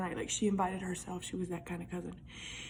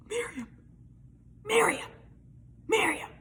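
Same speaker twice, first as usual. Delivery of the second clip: higher, louder urgent call; retold calling out; 11 semitones higher, 4 dB louder than usual. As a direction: call out to wake the sleeper. Abby calling sleeping cousin.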